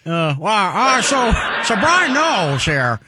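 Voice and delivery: badly faked sports radio host; halting mock broadcaster, lightly put on; Colin Cowherd. Shown as a demonstration. The speaker attempting his much-mocked radio host impression, hammed-up. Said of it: "the worst Colin Cowherd impression".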